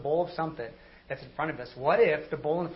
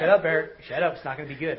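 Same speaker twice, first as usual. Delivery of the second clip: loud self-scold; 9 dB louder than usual. Retold or imitated.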